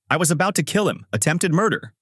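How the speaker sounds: a touch of panic over what she did; freaking out. A narrator's reading. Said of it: "freaking out".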